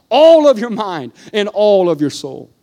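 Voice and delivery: each "all" given weight, slowed down; stress on all. Real, not acted. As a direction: press on "all" each time. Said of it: "Emphasis on the all".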